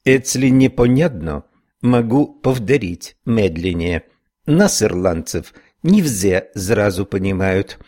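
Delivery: lightly voiced Irish brogue; Irish accent. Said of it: "с сильным ирландским акцентом". (ирландский акцент, медленно)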